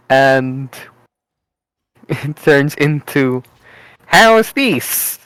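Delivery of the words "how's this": a lightly done, higher mock Italian accent; a hint of a cartoon Italian accent; stereotypical Italian voice. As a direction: try out a hammed-up Italian accent on the group. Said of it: "Horatio attempting to sound like a stereotypical Italian".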